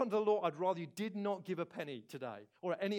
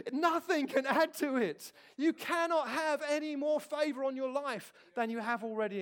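emphatic preaching; 6 semitones higher, 5 dB louder than usual. Real, not acted. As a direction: drive the point home with force.

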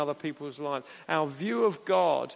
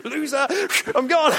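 much higher, louder taunting squeak; hamster voice; 10 semitones higher, 8 dB louder than usual. Pretend. Hamster taunting the others, high squeaky shout. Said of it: "you can imagine they're like".

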